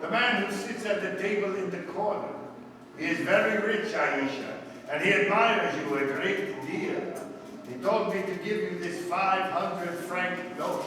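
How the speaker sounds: lightly voiced scheming guide; a hint of the hired guide; Arab guide disguise. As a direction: persuade her as a guide. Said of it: "adopted the disguise of an Arab guide".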